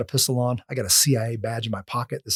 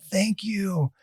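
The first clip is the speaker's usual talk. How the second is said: higher, gently voiced gratitude; soft voiced thanks; 6 semitones higher, 4 dB quieter than usual. Little lady thanks her defender as they leave, softly voiced. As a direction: imitate a grateful lady, softly but audibly.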